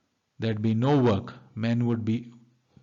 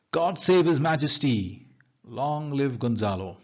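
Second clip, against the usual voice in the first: mock acclaim, higher at the start; very sarcastic; 4 semitones higher than usual. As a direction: hail him with lightly sarcastic pomp. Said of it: "very sarcastically say".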